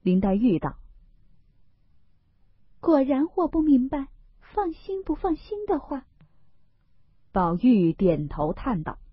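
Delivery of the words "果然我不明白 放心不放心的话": Daiyu. Acted. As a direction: insist you don't understand, voice sinking away. Daiyu insists she doesn't understand.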